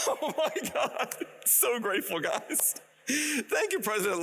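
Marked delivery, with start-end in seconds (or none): 0.1-2.7 overwhelmed, giggling thanks; laughing gratefully. Real, not acted.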